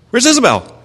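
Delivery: high-pitched imitation of a worried child; anxious little boy. Imitates son looking for sister.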